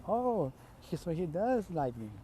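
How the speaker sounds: delighted little realization, lightly voiced; happy. Toru overhears and thinks he likes her, happy. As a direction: lift the pitch on a pleased "oh". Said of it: "she's all happy".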